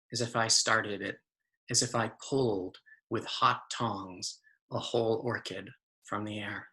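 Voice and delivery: measured recital with deliberate pauses; poetry reading. Acted. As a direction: close the poem phrase by phrase, easing off. Closes the poem.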